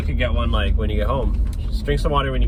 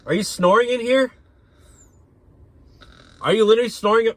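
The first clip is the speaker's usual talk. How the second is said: incredulous; 10 semitones higher than usual. Acted. Driver catches passenger snoring.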